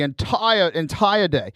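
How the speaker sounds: put-on Australian accent; lightly imitated Aussie accent. Shown as a demonstration. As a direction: say it like a pretend Australian. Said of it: "I put on an Australian accent".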